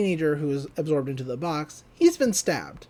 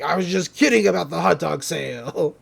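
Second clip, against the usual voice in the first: ghost voice. Retold or imitated. Retelling the ghost's villainous taunt.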